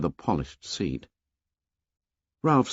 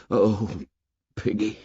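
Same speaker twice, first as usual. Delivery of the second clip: low and stricken. A narrator's reading. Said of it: "low and stricken".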